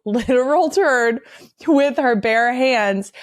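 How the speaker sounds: slow, laughing literal turd; laughing disbelief. Real, not acted. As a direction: repeat it through a laugh. Repeating quote in disbelief.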